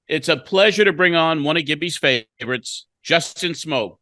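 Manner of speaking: measured, scripted broadcast intro; radio guest introduction. Acted. Host introducing a former Blue Jays player to listeners, announcer read. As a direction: present the guest like a sports-show host.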